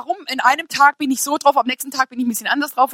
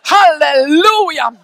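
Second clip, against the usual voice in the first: drawn-out halleluja; 2 semitones higher, 6 dB louder, much slower than usual. Real, not acted. Preacher exclaiming.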